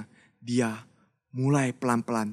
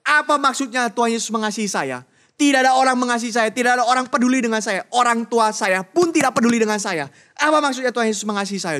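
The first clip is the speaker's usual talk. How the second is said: loud, high and fast, furious denial; raging gang member rejecting the preacher; angry outburst; 9 semitones higher, 6 dB louder, faster than usual. Acted. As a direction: spit it out like a bitter street kid. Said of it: "Niki begitu jengkel".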